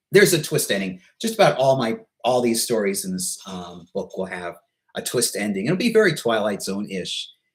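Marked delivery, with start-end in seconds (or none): 0.1-1.0 emphatic, THERE'S hit higher and louder.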